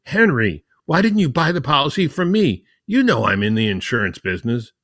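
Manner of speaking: exasperated retold complaint, lightly acted; retold mock scream. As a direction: protest like an affronted friend, without really shouting. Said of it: "and practically screamed".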